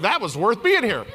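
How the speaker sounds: amused mock audience; laughing mock audience. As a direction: laugh as if the crowd were impressed. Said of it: "you're all like".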